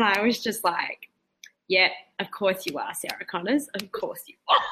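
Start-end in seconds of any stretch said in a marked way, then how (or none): 1.7-4.6 hiccuping between words; with hiccups. Real, not acted. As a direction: talk through the hiccups. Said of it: "excuse my hiccups at the end of sentences".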